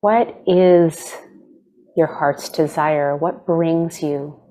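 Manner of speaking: unhurried meditation guide, long pauses between phrases; guided meditation. Acted. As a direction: gently lead them into stillness, leaving space to breathe.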